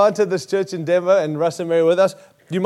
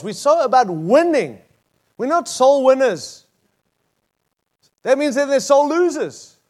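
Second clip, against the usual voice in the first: higher-pitched, emphatic preaching; impassioned preaching; 7 semitones higher than usual. Real, not acted. Preacher urging congregation to just sow seed, impassioned. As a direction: preach it with rising urgency, pitched up.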